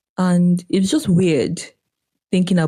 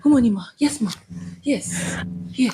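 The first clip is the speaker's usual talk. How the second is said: high-pitched dutiful replies, fading softer; deferential greeting; 5 semitones higher, 3 dB quieter than usual. Acted. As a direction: play the eager, obliging junior. Acts out deferring to a boss.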